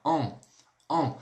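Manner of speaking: "On" as one nasal vowel, said alone twice; demonstrated nasal sound. Shown as a demonstration. Teacher showing pupils the E-N sound, demonstrated nasal "On". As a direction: sound out "On" for learners, each separate. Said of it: "ele tem um som assim".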